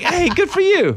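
very high, loud register with forced sincerity. Demonstrating how they would say it sincerely, go up into a high register. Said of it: "I don't know why I'm up on that high register there".

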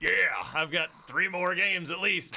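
cartoon voice, lifted in pitch. Doing an impression for the others: sounding like Jake the dog. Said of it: "That sounded like Jake the dog".

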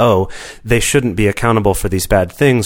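plain

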